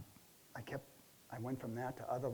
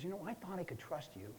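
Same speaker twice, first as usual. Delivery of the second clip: retold angry boss; 2 semitones higher than usual. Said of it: "he starts screaming at me".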